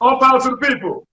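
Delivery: hammed-up American rally call in a put-on American accent. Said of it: "How's my American accent?".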